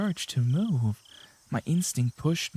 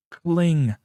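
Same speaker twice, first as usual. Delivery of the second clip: loud clang; 7 dB louder than usual. Acted. Key hits floor, sound effect.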